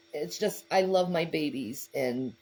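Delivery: fighting back tears while speaking; after crying. Real, not acted. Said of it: "I'm getting all teary-eyed".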